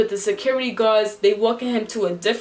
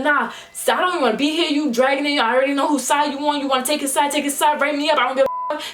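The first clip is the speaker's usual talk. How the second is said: heated, higher-pitched retold rant; blacking on him; 5 semitones higher, faster than usual. Student going off on the dean, heated rant. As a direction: fire off fed-up lines one after another. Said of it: "I started blacking on the dean".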